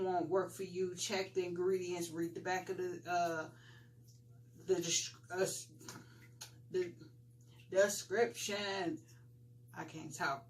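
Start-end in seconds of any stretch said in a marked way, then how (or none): 4.7-9.0 sleepy, tripping on the word; half asleep. Real, not acted. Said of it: "I'm, like, half asleep". 9.8-10.4 drowsy, low and quiet; sleepy, fading voice; half asleep. Real, not acted. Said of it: "I'm, like, half asleep".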